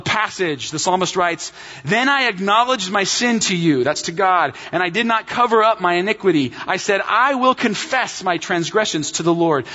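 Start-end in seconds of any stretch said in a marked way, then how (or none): 1.8-3.8 emphatic scripture quote, lightly pressed. Acted. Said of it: "You see how emphatic he is here". 4.7-9.7 psalmist's declaration with mild emphasis; emphatic. Acted. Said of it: "You see how emphatic he is here".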